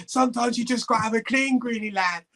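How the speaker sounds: high, loud mock Scouse voice; imitating a Scouse teammate. Teammate with the hose pipe calling to Greenie, high and loud. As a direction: ham up the cheeky teammate, high and shouting.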